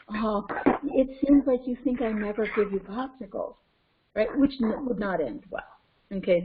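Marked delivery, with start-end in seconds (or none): 0.1-3.6 measured, even therapist-style reflection; mock the composed, careful listener; calm reflecting. Shown as a demonstration. Parent reflecting a child's complaint too calmly, measured reflection. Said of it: "I'm not reflecting in this, like".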